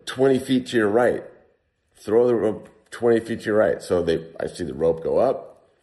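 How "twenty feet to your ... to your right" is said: calling up a cliff, a bit higher and louder; stranded climber calling up to the rescuers, mildly raised voice; retold yell up. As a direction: shout the directions up to the rescuers above. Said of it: "So I'm yelling up to the guys".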